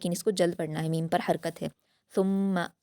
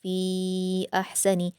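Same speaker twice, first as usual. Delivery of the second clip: slow, careful Quranic reading; slow recited verse; tajweed recitation; much slower than usual. Shown as a demonstration. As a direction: draw the verse out slowly. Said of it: "जल्द पढ़ेंगे".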